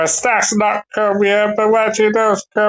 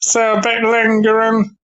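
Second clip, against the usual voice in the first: muffled. Real, not acted. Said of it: "sorry I'm a bit muffled still".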